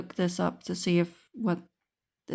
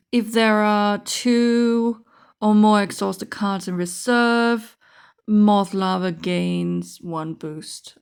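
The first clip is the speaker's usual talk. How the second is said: slow, careful rules-text reading; formal rules reading; 3 dB louder than usual. Shown as a demonstration. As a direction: read it out like official card text. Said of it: "That would be how it would be said in Magic the Gathering".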